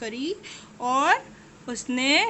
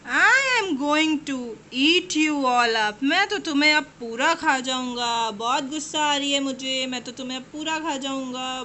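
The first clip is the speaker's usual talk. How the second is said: angry lion. Acted. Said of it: "बहुत गुस्सा आ रही थी लायन को".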